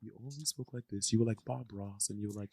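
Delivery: barely audible, hushed imitation; very soft, feather-light murmur; post-surgery voice. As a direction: imitate someone sparing their sore throat. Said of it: "you were talking like this".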